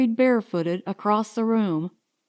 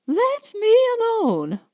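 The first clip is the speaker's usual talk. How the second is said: pleading higher, rising to despair; higher plea; 12 semitones higher than usual. Acted. Tired woman begs her family to let her be, higher and desperate. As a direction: raise it, more desperate the second time.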